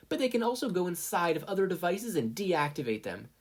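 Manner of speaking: high, smug product demo; mock the rival then sell; snarky sales pitch. Mina presenting micro ants to investors, smugly.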